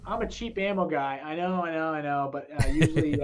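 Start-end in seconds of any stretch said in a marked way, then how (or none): 2.3-3.2 laughing. Real, not acted. Embarrassed about cheap ammo.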